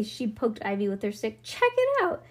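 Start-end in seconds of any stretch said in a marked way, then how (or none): 1.4-2.2 high, loud exclamation; excited call. A narrator's reading. Bean showing Ivy an escaped dragon, excited call. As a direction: call out a thrilling discovery.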